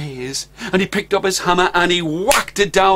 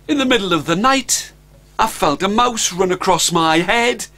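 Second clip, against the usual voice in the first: boastful Stan; 3 semitones higher than usual. Acted.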